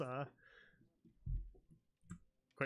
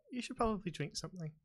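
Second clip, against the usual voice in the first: Daphne; 7 semitones higher, 3 dB quieter, faster than usual. Acted. Game master voices Daphne offering water.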